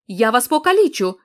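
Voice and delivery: roar. Acted. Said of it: "заревів він".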